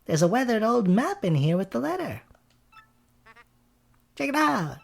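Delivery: high-pitched cartoon brother; Luigi. Plays Luigi in game dialogue.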